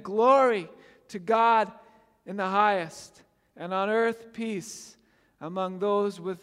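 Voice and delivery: projected, measured public Bible reading; scripture reading. A narrator's reading. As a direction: proclaim the passage clearly, building on the angel's news. Reads the nativity passage aloud.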